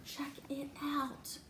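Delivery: slow secret whisper. Acted. Whispering to Nat, teasing the next page. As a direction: lean in and whisper the reveal. Hushed aside to the child.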